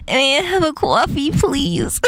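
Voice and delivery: cutesy New York coffee order; New York accent with uwu. Acted. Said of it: "New York accent mixed with uwu".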